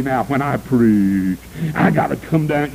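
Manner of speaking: mock preacher voice. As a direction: lightly ham up a pompous preacher dropping his voice. Mocking preachers who change voice.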